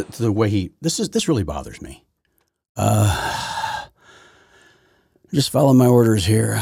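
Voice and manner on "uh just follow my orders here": mock labored drawl, louder; mocking impression. Host mocking the president's tired delivery, louder. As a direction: ham up his heavy breathing. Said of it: "Why are you breathing into the microphone like that?".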